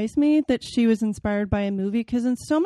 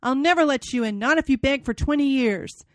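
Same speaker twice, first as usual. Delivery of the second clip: angry refusal; 4 semitones higher than usual. Acted. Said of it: "I shouted".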